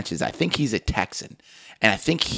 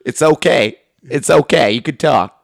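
Doctor Phil coaxing guest; 6 dB louder than usual. Retold or imitated. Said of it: "he makes the guest cry".

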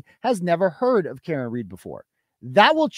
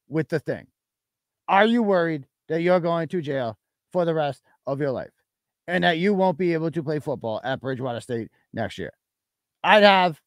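lower, a hint of a lawyer reading out the voicemail; Ken Mello voice; 3 semitones lower than usual. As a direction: lightly voice an attorney reading evidence aloud in court. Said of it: "I'm gonna read it in Ken Mello voice".

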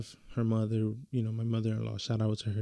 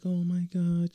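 higher, overwhelmed mock gasp; mock emotional gasp; 8 semitones higher than usual. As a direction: gush like a moved pregnant wife. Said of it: "she's, like, super emotional".

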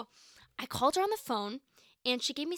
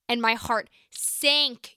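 mock heartbreak; 6 dB louder, much slower than usual. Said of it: "that's a little dramatic".

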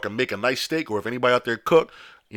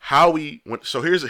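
usual speaking voice

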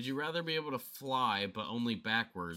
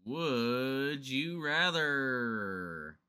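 announcer voice; 3 semitones higher, much slower than usual. Acted. Game show style question intro.

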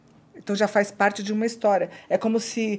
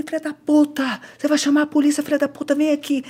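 higher-pitched, mock-furious order; retold angry threat; 6 semitones higher than usual. Boyfriend ordering her back from corridor, imitated anger. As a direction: imitate an enraged man calling her back.

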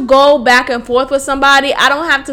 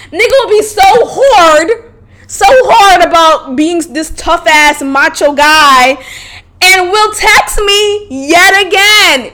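laughing exasperation; 5 semitones higher than usual. Real, not acted. Mocking the macho ex to her listeners, laughing shout. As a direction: crack up in disbelief at him.

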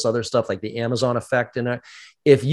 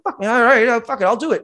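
psyched into it; 10 semitones higher, 4 dB louder than usual. Acted. Acted convert giving in to hype.

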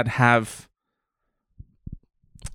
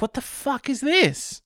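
confused moviegoer; 9 semitones higher, 4 dB quieter than usual. Retold or imitated. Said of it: "you're like".

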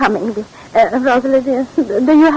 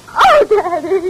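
higher and slow, through tears; weeping, pleading with her father; tearful plea; 5 semitones higher, slower than usual. Acted. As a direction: plead with him while crying. Daughter breaks down to father.

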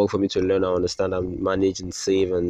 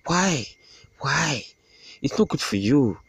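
high, pleading mock voice, thin and put-on; mock whiny voice; 6 semitones higher than usual. Mocking the boss, pleading high and whiny. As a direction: whine it back at the boss like a hurt child. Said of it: "And I was like".

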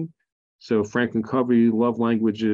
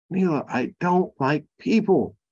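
higher, put-on whiny insistence; mock whiny refusal; 7 semitones higher than usual. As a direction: whine it back at her. Repeats refusal to wife.

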